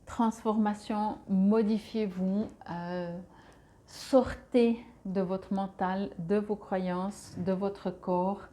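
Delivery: slow, deliberate message delivery; channeling voice. Acted. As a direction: spell each word out like a medium.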